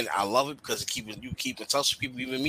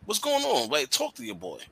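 high, pressing worried questions to a friend; asking a depressed friend what's wrong, with high, urgent concern; 7 semitones higher than usual. Retold or imitated. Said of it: "And it's like".

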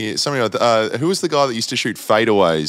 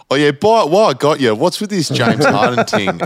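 mock casual aside; 9 semitones higher than usual. Podcast host sneaking a trade question to Daryl Morey, mock casual and high. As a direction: slip the question in like it's nothing.

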